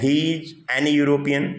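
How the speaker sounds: very slow, word by word, he is an European; slow demo sentence. Shown as a demonstration. Teacher reads an example sentence to pupils, slow dictation. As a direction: read it out slowly for the class. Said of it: "an European wrong होगा".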